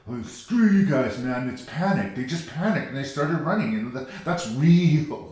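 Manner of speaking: drawn-out opening, then insistent mock arguing; mock movie defender. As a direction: imitate an indignant fan arguing back. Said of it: "I've heard defenders of the movie just say".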